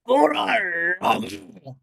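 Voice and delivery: dramatic, drawn-out anime shout; imitating an anime hero's yell; anime character's cry. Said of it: "he goes".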